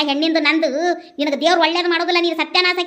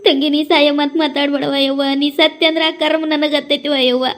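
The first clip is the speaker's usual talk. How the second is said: mother-in-law crying as she pleads; weepy, remorseful appeal; tearful pleading. Acted. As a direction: plead through tears, guilt-stricken. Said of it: "ಅತ್ತಿಯರು ಅಳಾತಾರ ನೋಡ್".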